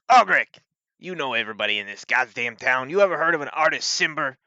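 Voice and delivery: loud, high call, then brisk questioning; impatient lawman raising his voice; demanding sheriff. Acted. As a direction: summon someone sharply and question them as sheriff.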